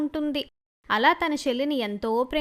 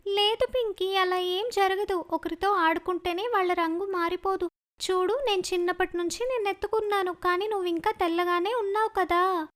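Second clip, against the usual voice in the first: put-on higher girl's voice, inviting; cheerful older sister; 4 semitones higher than usual. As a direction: call your little sister out to play. Sister reassuring Pinky.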